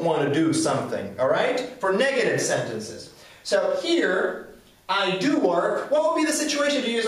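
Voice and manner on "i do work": "do" stretched for emphasis; slow, weight on the word "do"; stress on do. Shown as a demonstration. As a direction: lean firmly on "do". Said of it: "is used for emphasis".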